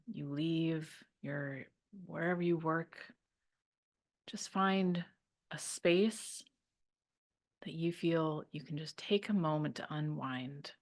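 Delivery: calm, unhurried guiding voice; guided meditation. Real, not acted. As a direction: ease listeners gently into settling down.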